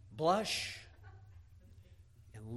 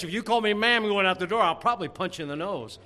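much louder, raised preaching voice; emphatic warning; 5 semitones higher, 12 dB louder than usual. Real, not acted. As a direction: belt it out as a blunt warning. Preacher warns congregation at full force.

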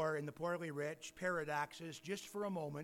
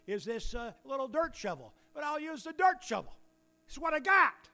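a believer's prayer that climbs higher and louder; a grateful prayer that builds in pitch and volume; contented prayer, building; 3 semitones higher, 5 dB louder, faster than usual. Acted. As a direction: start plain, then climb to a loud high finish.

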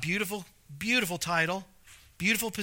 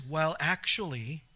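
know-it-all; 4 semitones lower, 3 dB quieter than usual. Retold or imitated. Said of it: "their response is".

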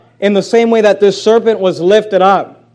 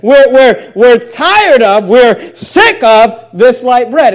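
whiny complaint; 3 semitones higher, 4 dB louder, much slower than usual. Retold or imitated. People complain about bread.

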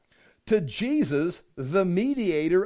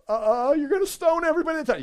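higher, fast stammering fear; nervous Moses; 7 semitones higher, faster than usual. Retold or imitated. Moses protests to God about coming up, fast nervous stammer. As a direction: stammer in alarm.

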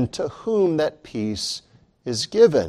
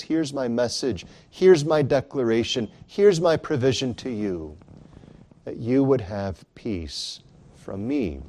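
softer, hushed declaration; gentle Christ; 3 semitones lower, 4 dB quieter than usual. Acted. Christ to his fearful disciples, quiet tender words. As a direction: offer it quietly, like a gift.

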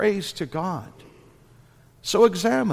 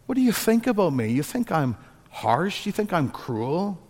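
higher-pitched, kindly fatherly questioning; kindly, gracious God; 3 semitones higher than usual. Acted. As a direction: gently plead with a dear child. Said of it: "God very kindly and graciously says".

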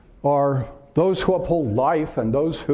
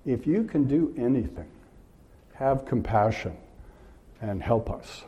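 quiet echo; 2 semitones lower, 6 dB quieter than usual. Shown as a demonstration. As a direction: repeat "If you can do anything, have compassion and help us" softer, letting it fade. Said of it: "What a remarkable statement".

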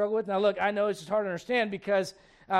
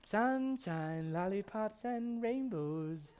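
much softer, slow, dreamy and carefree; oblivious denial voice; 9 dB quieter, much slower than usual. Retold or imitated. Christian in denial while war rages around him, drifting dreamily softer. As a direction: float through it as if nothing is wrong. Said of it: "They're just like".

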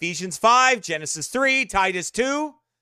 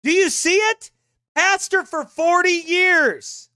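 high, loud, slow indignant yelling; outraged shout; 10 semitones higher, 5 dB louder, slower than usual. Real, not acted. Preacher shouting at listeners about the pastor, outraged. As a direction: bellow it in disbelief at the congregation.

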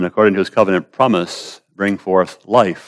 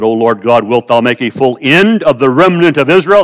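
louder, higher pleading to God; loud cry; 5 semitones higher, 6 dB louder than usual. Acted. Ezekiel cries to God for the remnant, loud pleading. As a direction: call out in anguish. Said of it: "cried with a loud voice".

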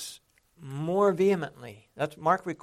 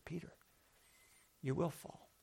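soft, gentle warning, quieter than the lines around it; compassionate warning; 3 semitones higher, 11 dB quieter than usual. Retold or imitated. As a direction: warn him softly, out of love. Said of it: "a compassionate heart".

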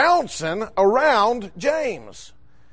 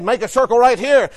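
retold pastor directing the group; mildly raised, rallying call; 3 dB louder than usual. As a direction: give a firm instruction to the crowd. Pastor calling group together to pray.

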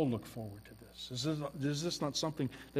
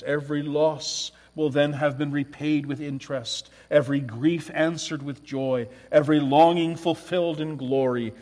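louder and louder ringing read; full-force preaching; 10 dB louder than usual. Acted. Preacher reading a commentator to the church, rising full force. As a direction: build the quote to a climax.

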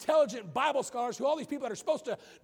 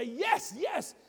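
cheering; 5 semitones higher than usual. Retold or imitated. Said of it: "he began to cheer".

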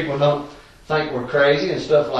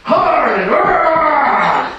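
playful mock of a hollering preacher, a touch higher; quoting Philip with a laugh in the voice; hammed-up preacher imitation; 5 semitones higher, 4 dB louder than usual. Telling the congregation Philip's line, laughing mock holler. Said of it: "He told me one time".

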